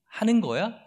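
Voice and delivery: scornful enemy voice, taunting; mocking taunt. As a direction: jeer at them like a bully. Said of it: "라고 비웃는 거예요".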